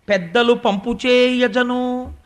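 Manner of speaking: slow, drawn-out reciting of a verse line; verse recitation. Acted. Preacher reciting Pothana's line, slow and drawn out. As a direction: chant the verse slowly.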